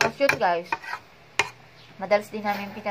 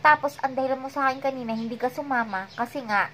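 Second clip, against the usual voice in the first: retold angry confrontation. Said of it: "Galit na ako".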